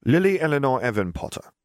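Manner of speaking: put-on high, bright little girl reading her own name; a child proudly spelling out her name; young girl's voice. A narrator's reading. Little girl writing her obituary, high child's voice. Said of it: "She crossed it out and began again".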